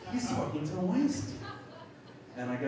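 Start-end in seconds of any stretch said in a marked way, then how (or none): 0.1-1.4 high, rising imitated alarm; indignant tattling, pitched way up; alarmed accusation. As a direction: raise the alarm to the whole room. Bingham voiced, alarm rises.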